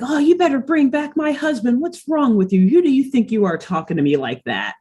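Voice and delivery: indignant retold telling-off, starting high; mock yelling. Muriel tells off the giant foot, mildly indignant mock yell. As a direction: play at scolding without a full shout. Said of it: "yelling at him".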